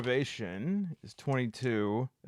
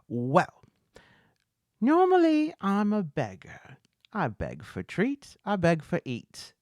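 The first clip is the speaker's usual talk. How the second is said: high, put-on beggar's patter; beggar character voice; 9 semitones higher, 6 dB louder than usual. Beggar explaining himself to his captors, beggar character voice. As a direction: pitch it up as a theatrical beggar.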